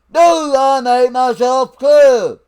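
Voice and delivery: barked order to the troops; drill sergeant voice. Acted. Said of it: "break out my fucking drill sergeant voice".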